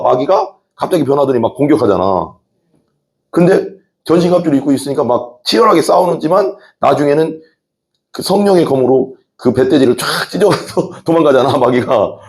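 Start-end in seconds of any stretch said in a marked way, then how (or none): none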